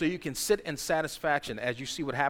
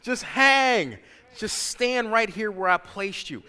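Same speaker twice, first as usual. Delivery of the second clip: tender God voice; 5 semitones higher, 5 dB louder than usual. Retold or imitated. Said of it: "He said".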